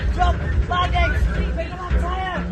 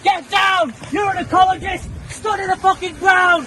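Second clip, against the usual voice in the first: drill orders. Acted. Drilling a crawler.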